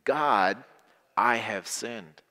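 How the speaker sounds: slow, sincere confession; repeat after me. Shown as a demonstration. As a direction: lead the children in confession. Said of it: "Say that with me".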